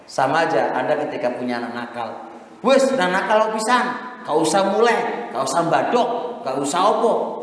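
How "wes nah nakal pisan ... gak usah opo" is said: higher, louder mock scolding of a naughty kid; imitated scolding parent. Preacher imitating a parent scolding a naughty child, mock angry. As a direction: snap at the child like an exasperated parent.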